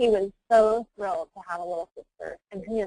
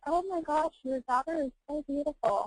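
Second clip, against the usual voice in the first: gushing admirer; 7 semitones higher than usual. Retold or imitated. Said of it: "when people say".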